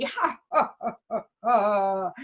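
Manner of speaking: pirates cackling with glee; gleeful laughter. A narrator's reading. Pirates closing in on the ship, laughing gleefully. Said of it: "laughing with glee".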